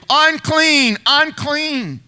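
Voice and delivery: high calling-out cry of unclean; leper's call. Retold or imitated. Leper warning the town, calling out. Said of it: "had to come in yelling loudly".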